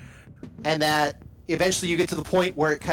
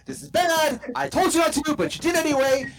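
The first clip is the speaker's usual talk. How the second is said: panicked screaming; 9 semitones higher than usual. Retold or imitated. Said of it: "Ty's like".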